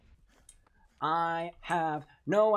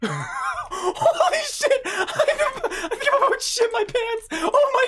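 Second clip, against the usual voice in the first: high shrieking laughter; laugh-scream in terror; panicked laughing scream; 9 dB louder than usual. Real, not acted. Laughing scream while chased.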